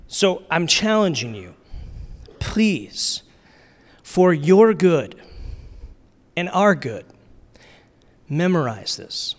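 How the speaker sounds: measured plea in short pieces with long pauses; pleading challenge, spaced out for weight; earnest pleading. Real, not acted. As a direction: appeal to them phrase by phrase. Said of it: "I'm pleading with us".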